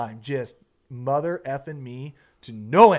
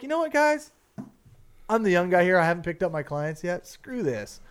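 fed up; 4 semitones higher than usual. Retold or imitated. Fed-up announcement to other boats.

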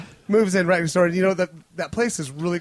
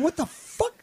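retold alarm; 6 semitones higher, slower than usual. Retelling his alarm in bed.

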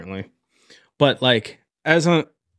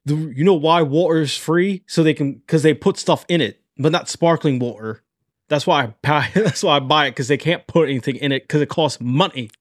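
put-on rough, unfinished British accent; lightly put-on British accent, explaining a theory; Andrew Tate. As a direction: have a casual go at a British accent. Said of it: "I'm still working on the accent".

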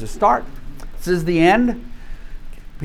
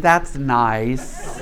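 dry mother; 4 semitones lower, 3 dB quieter than usual. Retold or imitated.

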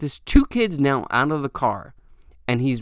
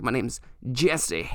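slow and softer, spelling out the fake name; slow, deliberate; 4 dB quieter, slower than usual. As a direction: lay the fake name down slowly. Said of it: "So that's what I said to him".

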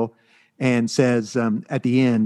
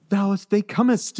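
mock-archaic elf, pitched higher; old-timey elf speech; 7 semitones higher than usual. Elf in the comic speaking to the other elf, mock-archaic. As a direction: ham up a fancy fantasy elf. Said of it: "talking like you would think elves would talk".

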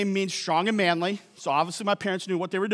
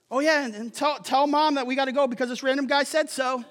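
higher-pitched pretend son breaking news to Dad; mock offhand son; 5 semitones higher than usual. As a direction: play a son cheerfully abandoning the family business. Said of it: "you go home and you say".

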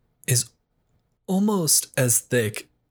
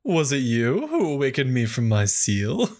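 silly demon voice. Shown as a demonstration. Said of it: "only my demon voice is more like".

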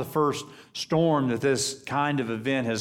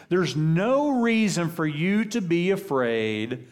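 earnest Jesus; 4 semitones higher than usual. Retold or imitated. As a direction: press the point home with conviction. Preacher voices Jesus' paraphrased words.

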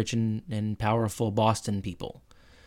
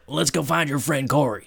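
Chet. Retold or imitated. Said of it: "Chet was like".

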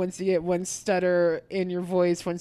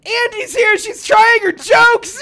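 announcer shout; 13 semitones higher, 10 dB louder than usual. Retold or imitated. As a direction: bellow it like an emcee. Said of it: "he's like".

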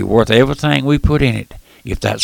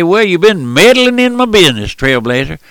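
higher-pitched mock complaint, dropping on the last word; imitated objector, pitched up; complaining listener; 5 semitones higher, 3 dB louder than usual. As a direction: act out a listener's grievance. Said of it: "and they say".

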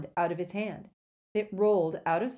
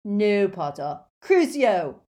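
loud warning building to a high cry; shouted curse; 4 semitones higher, 10 dB louder, slower than usual. Acted. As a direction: thug hurling a curse at an enemy. Crabbe stops Harry, casts curse.

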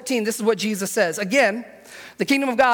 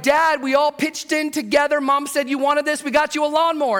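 higher, bubbly mock-excited kid delivery; eager gift presentation; 5 semitones higher than usual. Kids giving Dad a lawnmower, excitedly. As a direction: present it proudly, lightly playing the kids.

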